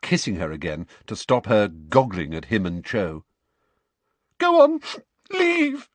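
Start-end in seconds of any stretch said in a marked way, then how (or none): 4.4-5.9 put-on high, loud, crying girl; tearful dismissal. A narrator's reading. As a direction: send him away through tears. Cho crying, voiced high.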